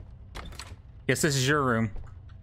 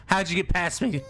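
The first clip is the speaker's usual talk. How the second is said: exasperated disbelief; 5 semitones higher than usual. Real, not acted. Baby escaped again.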